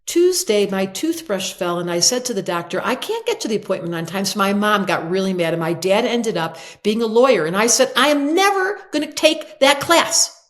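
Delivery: hint of a rambling word-salad talker; Bob Whipple. Imitating a patient's word salad, lightly acted, rising to an emphatic finish. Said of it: "he talked like this".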